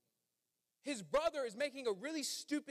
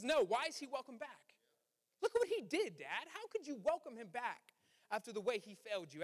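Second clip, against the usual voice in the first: indignant protest. Retold or imitated. Older brother challenges his dad, indignantly raised. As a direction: throw the question back at Dad. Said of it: "He says".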